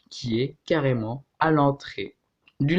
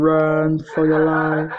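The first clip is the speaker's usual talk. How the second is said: dramatic slow movie voice; much slower than usual. Pretend. Slow dramatic English line.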